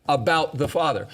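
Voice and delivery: "About the Father" repeated deliberately after a pause; emphatic repeat. Real, not acted. Teacher repeating the key phrase to his listeners, emphatic. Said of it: "the language I wanna emphasize".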